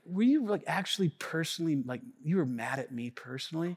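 softly asking his wife if she was mad; hushed question. Retold or imitated. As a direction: ask quietly, almost sheepish. Quiet question to family.

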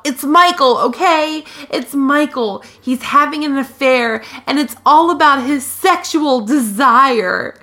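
high-pitched dramatic exclaiming; mock yelled outburst. Podcaster mimicking woman exposing an affair to roommate, mock yelling. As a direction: blurt it out as a hammed-up confession. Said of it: "yells out".

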